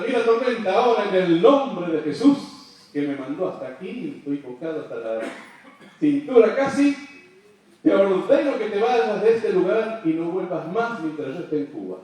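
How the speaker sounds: loud, forceful rebuke of the storm; preacher's loud command to the storm. Retold or imitated. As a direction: order the storm away with full authority.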